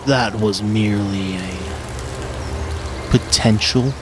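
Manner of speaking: slow, rumbling dragon voice; a lightly voiced ancient dragon, unhurried.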